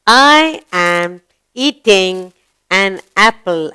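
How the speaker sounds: slow, word-by-word reading; slow model reading. Shown as a demonstration. Teacher repeating what the girl is saying, slow model reading. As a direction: read it out slowly for young pupils.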